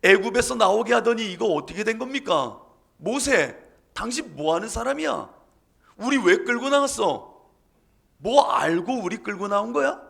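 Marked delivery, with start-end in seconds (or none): 3.0-10.0 raised, accusing shout; shouting at Moses. Acted. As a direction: yell the blame at Moses. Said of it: "소리를 지르는 겁니다".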